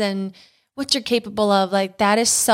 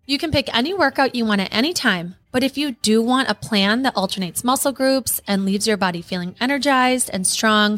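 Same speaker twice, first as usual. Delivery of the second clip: ad read. Acted. Ad read over music.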